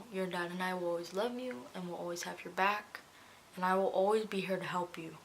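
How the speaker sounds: soft retold motherly comfort; gentle reassurance. Mother promising support to her daughter, gently reassuring. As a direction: promise support quietly and tenderly.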